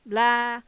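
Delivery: loud, goat-like blah; short irritated goat noise; irritated bleat. A narrator's reading. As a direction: bleat it out in annoyance. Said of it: "an irritated bleat".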